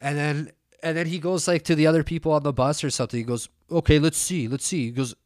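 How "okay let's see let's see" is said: raised, higher voice calling out to the bus; mocking a man rallying the passengers; mock announcement. Mocking bus guy calls to fellow passengers, raised voice.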